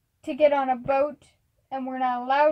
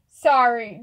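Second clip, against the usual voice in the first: deadpan, louder apology; emotionless; 7 dB louder than usual. Acted. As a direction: say it with no feeling at all. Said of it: "no emotion in the voice".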